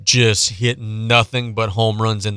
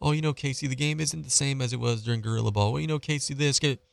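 whiny excuse maker; 3 semitones higher, 7 dB quieter than usual. Retold or imitated. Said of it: "All the pulmonary excuses".

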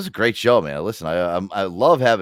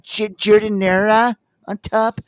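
mock clueless customer; 11 semitones higher than usual. Tourist ordering Italian beef, hammed-up and hesitant. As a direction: dither through the order in a high voice.

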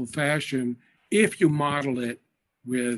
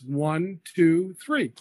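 adult showing counting, leaning on the last number; stress on three; slower than usual. Shown as a demonstration. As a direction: count it out for a child, leaning a little on the end. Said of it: "Adults will also do this".

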